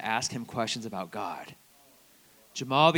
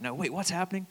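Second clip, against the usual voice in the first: higher-pitched, lightly baffled quote; imitated confusion; 6 semitones higher, 5 dB quieter, faster than usual. Student baffled by a sports talk, mock confusion. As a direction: mimic someone lost and puzzled, pitch up.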